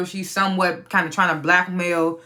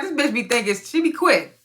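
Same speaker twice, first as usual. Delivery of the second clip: higher, excited re-say; 5 semitones higher than usual. Retold or imitated. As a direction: repeat it pitched up, impressed. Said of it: "I was like".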